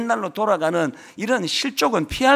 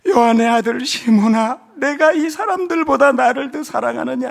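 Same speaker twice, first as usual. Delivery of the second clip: louder, solemn voice of Jesus asking; voicing Jesus; 5 dB louder than usual. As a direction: call out like the Lord questioning Peter. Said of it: "예수께서 시몬 베드로에게 이르시되". (큰 소리로 엄숙하게 묻는 예수님)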